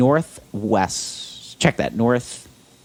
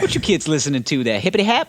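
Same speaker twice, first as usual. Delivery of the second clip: white dad impression; 4 semitones higher, faster than usual. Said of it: "Such a white dad thing to say".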